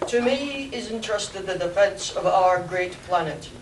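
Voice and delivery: booming alien ruler; Martian overlord voice. Acted. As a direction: proclaim like an alien king. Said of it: "the Martian's voice spoke".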